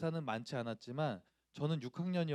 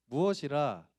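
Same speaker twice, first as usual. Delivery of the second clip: amateur schoolboy faking anger, loud but unraised in pitch; half-hearted stage outrage; stiff bad acting; 5 dB louder, slower than usual. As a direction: deliver it woodenly, like a shy child on stage. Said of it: "정말 발연기로".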